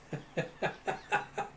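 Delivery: high, unvoiced staccato chuckle; mock laugh. Rival laughs after boasting of the trick, mock chuckle. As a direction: imitate a character's breathy ha-ha-ha.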